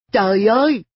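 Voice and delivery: high, loud outcry; exasperated exclamation. A narrator's reading. Boy throws his hands up at his lazy friend, exasperated outcry.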